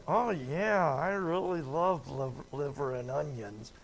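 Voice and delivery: mock enthusiasm, audibly insincere; sarcastic. Speaker faking love of liver and onions, sarcastic. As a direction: gush so nobody believes you. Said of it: "Most people understand that sarcasm".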